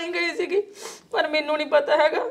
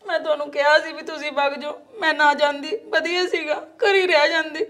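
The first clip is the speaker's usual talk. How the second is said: tearful complaint. Acted. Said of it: "ਗੁੱਸਾ ਨਾ ਕਰ".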